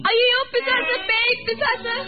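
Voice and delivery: put-on girl shrieks on seeing a ghost vanish; terrified scream.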